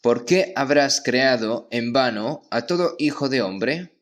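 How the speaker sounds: ordinary talk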